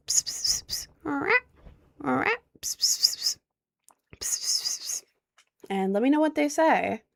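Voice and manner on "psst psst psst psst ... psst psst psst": whispered psst. Acted. Calling the cat in chat.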